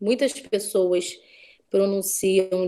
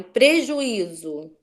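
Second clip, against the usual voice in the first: drawn-out example word; much slower than usual. Shown as a demonstration. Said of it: "Onde é o acento de prejuízo?".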